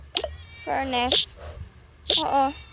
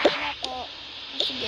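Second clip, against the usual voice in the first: quiet; 7 dB quieter than usual. Acted. Hurt reply after scolding.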